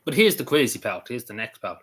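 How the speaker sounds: eating while talking; speaking through a mouthful; mouth full. Real, not acted. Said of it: "sorry, I'm eating".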